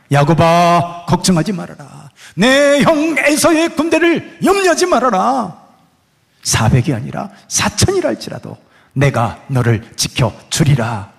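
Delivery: slow, solemn divine promise, lightly voiced; a hint of God's calm assurance. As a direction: speak as God reassuring Jacob, unhurried.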